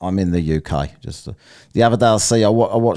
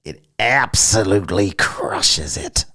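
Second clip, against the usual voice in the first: drawn-out mock echo; slower than usual. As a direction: slowly parrot it, stretching the words. Mockingly echoes a debater's phrase.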